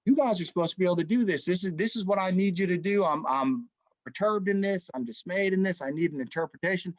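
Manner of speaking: retold royal demand, lightly worked up; fired-up king. King demanding answers from his sorcerers, mildly fired up. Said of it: "the king's fired up, man".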